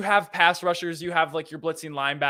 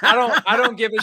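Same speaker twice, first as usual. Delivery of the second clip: loud, higher protest through laughter; laughing, raised-voice objection; 5 semitones higher, 9 dB louder than usual. Real, not acted. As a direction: insist while still cracking up. Protests while cracking up.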